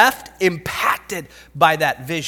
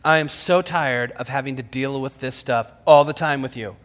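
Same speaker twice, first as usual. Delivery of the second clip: mildly exasperated, lower voice; understated weary scolding; frustrated parent; 4 semitones lower than usual. Retold or imitated. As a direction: lightly act a fed-up parent. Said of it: "it's because they're frustrated".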